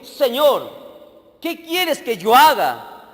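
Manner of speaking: slow, pleading plea to the Lord; slow, fervent trembling plea; trembling and fearful. Acted. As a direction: beg slowly, a touch of fear. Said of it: "él temblando y temoroso dijo".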